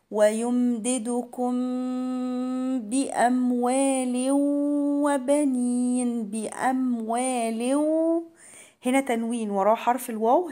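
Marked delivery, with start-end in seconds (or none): 0.1-7.8 "ويمددكم بأموال" chanted slowly, humming the m into the b; labial ikhfaa. Shown as a demonstration. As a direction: hold a nasal m between "ويمددكم" and "بأموال". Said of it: "إخفاء شفوي". ("ويمددكم بأموال" بإخفاء شفوي وغنة)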